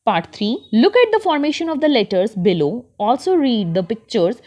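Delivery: put-on very slow, deliberate reading aloud for children; slow textbook reading. Teacher reads the passage to her class, very slow. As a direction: read each word out slowly for young learners.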